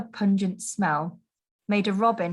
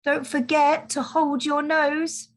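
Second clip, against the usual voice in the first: calling out wisely; 6 semitones higher than usual. Acted. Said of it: "called out very wisely".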